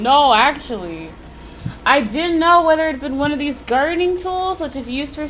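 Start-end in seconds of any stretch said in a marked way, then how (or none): 1.8-5.3 measured visual novel narration; composed narrator reading; story narration. A narrator's reading. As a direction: read it aloud like a grim storyteller. Reads game's narration aloud.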